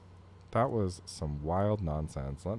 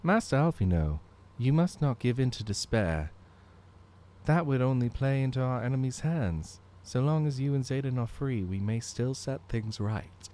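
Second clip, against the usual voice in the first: steady commander voice; 6 semitones higher, 3 dB louder than usual. Acted. Voicing marshal lines.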